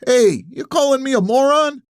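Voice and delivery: high-pitched indignant challenge; indignant old man. A narrator's reading. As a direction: fire back, offended. Old man takes offence.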